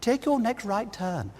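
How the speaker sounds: lightly voiced posh navigation lady; a hint of a well-spoken woman, measured delivery; posh satnav woman. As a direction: give directions as a posh satnav. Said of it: "this really posh woman".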